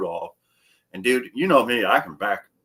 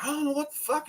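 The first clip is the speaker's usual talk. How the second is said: mock bewildered guy; 6 dB quieter, faster than usual. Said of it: "he's like".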